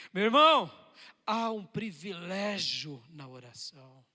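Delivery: ordinary talk, nothing marked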